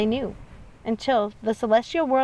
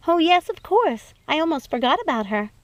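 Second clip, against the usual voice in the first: Snow delighted; 6 semitones higher, 4 dB louder than usual. Acted. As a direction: savour the joy of seeing family. Snow remembers Tittlebottom.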